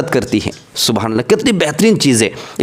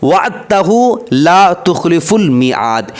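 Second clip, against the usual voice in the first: slow recitation; slower than usual. Shown as a demonstration. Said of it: "recites end of dua".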